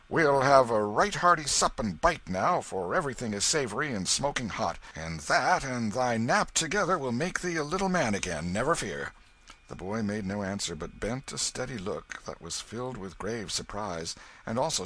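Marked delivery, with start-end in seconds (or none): 0.1-9.1 hearty, louder and higher; cheery. A narrator's reading. Knight cheering the boy at supper, hearty and bright-voiced. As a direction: cheer up the tired boy with food. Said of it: "in a cheery voice".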